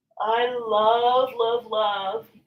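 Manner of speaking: slow, drawn-out words through a big yawn. Leading listeners through a morning stretch, yawning while talking. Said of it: "You can hear it in my voice".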